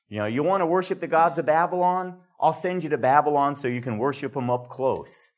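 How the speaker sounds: sarcastic mock-obliging offer; a touch of ironic bite; biting sarcasm. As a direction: hand out the punishment as if granting a favor. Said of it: "that biting edge of sarcasm".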